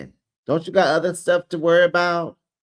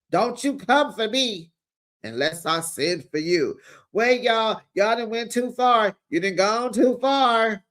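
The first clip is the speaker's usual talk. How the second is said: heated high voice; 6 semitones higher than usual. Retold or imitated. Voicing Nelle, then reacting.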